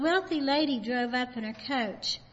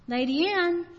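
calling out higher; louder call; 6 semitones higher, 5 dB louder than usual. Retold or imitated. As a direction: call her name louder.

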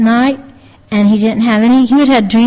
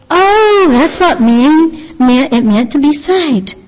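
mild acted realization, higher at first; dawning realization; 4 semitones higher, slower than usual. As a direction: voice someone finally understanding. Voicing the boy's sudden realization.

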